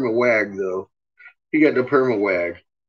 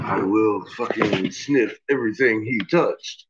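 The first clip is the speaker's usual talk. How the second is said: voicing the dog; 2 semitones lower than usual. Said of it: "She's like".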